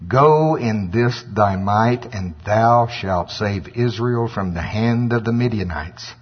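slow, measured pronouncement; weighty, drawn-out commission; the Lord's command. Acted. The Lord sending Gideon to save Israel, slow and solemn. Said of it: "looked upon him and said".

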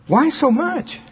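fighting not to sound amazed; held-back surprise. Retold or imitated. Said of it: "Trying not to act too surprised".

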